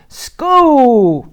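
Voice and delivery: high, loud happy exclaim; excited exclaim. Acted. Little mouse arrives at school, exclaiming excitedly. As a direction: burst out with delight. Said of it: "she's so excited".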